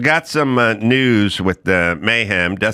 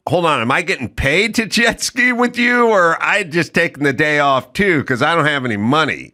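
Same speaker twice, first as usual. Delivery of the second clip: sheepish question; 5 semitones higher than usual. Retold or imitated. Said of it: "I was always like".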